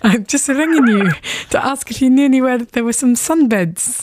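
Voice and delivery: light put-on Scottish accent, prank call; a mild stab at a Scottish politician's accent; Tommy Sheridan Scottish accent. Prank-calling Johnny as a Scottish politician, mild put-on Scottish accent. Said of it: "I'm gonna pretend to be Tommy Sheridan".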